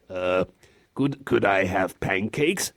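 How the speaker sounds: mock bashful child; five-year-old. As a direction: ask timidly like a little kid. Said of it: "you sound like a five-year-old".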